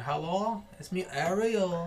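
soft, slow mock Chola accent; drawn-out, quiet Chola accent attempt. Introducing himself as Ariel, soft slow Chola accent. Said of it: "give me the Chola accent".

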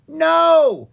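very high, slow tiny voice; tiny newt voice. Acted. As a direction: squeak like a little newt.

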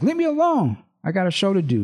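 high-pitched, lightly acted refusal; mock singer's protest. Host reading a singer pushing another singer away, high-pitched. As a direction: toss it off in a high girlish pitch.

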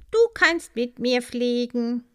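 friendly. A narrator's reading. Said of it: "sagte diese freundlich".

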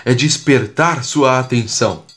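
measured cordel recitation, clear pauses between phrases; verse recitation. Acted. Podcaster reciting a rhymed tip to listeners, measured verse recitation.

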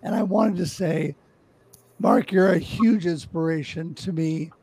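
hoarse and worn out; pushing through a lost voice; losing voice. Real, not acted. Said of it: "Russ, your voice does wanna".

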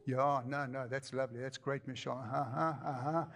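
absent, low uh-huh murmurs to the wife; distracted husband. Husband brushing off his wife's chatter, distracted. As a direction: humour her without listening.

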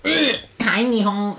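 high, loud family greeting; mock gushing relative. Family walking in on you uninvited, mock gushing greeting. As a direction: pitch it up like an intruding relative. Voicing relatives who walk in.

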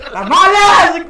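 high, full-volume hawking yell; shouted vendor cry. Retold or imitated. New vendor finally obeying the señora, shouted street cry. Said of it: "gritó yo".

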